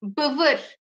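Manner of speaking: Bıvır with a back unrounded ı, not i; Bıvır, model word for learners; Kurdish pronunciation. Shown as a demonstration. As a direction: say Bıvır with a dull ı vowel. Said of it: "Bivir değil".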